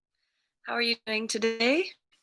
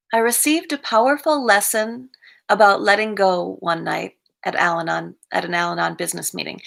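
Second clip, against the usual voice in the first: measured daily-reading delivery; reading aloud. Acted. Reading a recovery reflection to the group, read-aloud voice. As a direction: read it out evenly, phrase by phrase.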